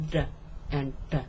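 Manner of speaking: "d" with the tongue tip curled back behind the ridge; wrong d made too far back; retroflex d. Shown as a demonstration. Teacher showing the Indian retroflex d. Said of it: "so that they sound like".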